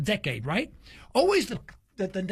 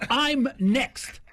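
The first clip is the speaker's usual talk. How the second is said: firm; 4 semitones higher than usual. Retold or imitated. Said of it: "I wasn't nasty, I was firm".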